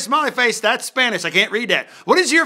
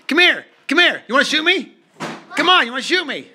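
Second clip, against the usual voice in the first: laughing dare; 5 semitones higher than usual. Real, not acted. Dares kids to shoot him.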